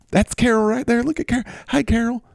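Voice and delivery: high, doting squeal; C D Lamb. Acted. C D Lamb greets his lamb Carol, high and doting. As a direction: coo over it in a high character voice. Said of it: "I'm C D Lamb".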